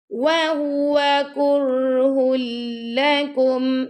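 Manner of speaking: drawn-out measured chanting; Quran recitation. Shown as a demonstration. Teacher models the verse for pupils, slow chant. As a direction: recite it slowly and melodically. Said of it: "teacher demonstrates recitation".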